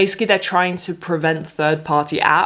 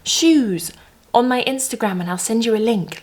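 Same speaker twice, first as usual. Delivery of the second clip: mocking influencer ad; 4 semitones higher than usual. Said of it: "when people say".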